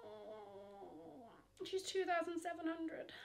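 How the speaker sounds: hushed whisper at the price; stunned whispered price check. Real, not acted.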